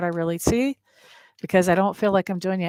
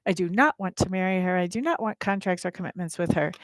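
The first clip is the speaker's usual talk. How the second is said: firm, emphatic "do not"; 4 dB quieter than usual. Retold or imitated. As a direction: stress on not. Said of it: "I'm saying that so emphatically".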